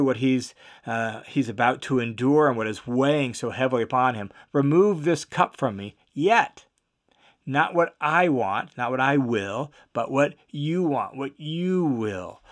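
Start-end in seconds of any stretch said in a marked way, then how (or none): 4.5-12.4 prayerful surrender. Retold or imitated. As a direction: let the will drop away gently to the end. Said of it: "Mark records his words".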